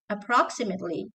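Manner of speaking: "Approximately" with no held P; single light P. Shown as a demonstration. Teacher repeating the right form, single P in "Approximately". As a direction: glide through the P of "Approximately". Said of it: "You say appro".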